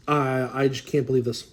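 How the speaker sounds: breathless with amazement; short of breath from excitement. Real, not acted. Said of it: "I gotta catch my breath".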